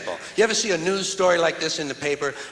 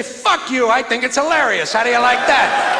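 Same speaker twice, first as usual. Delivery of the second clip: louder, scornful comeback to the critics; defiant retort; 3 semitones higher, 5 dB louder than usual. Retold or imitated. Comic answering the no-rape-jokes crowd, loud and scornful. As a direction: throw it back in their faces. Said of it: "I say".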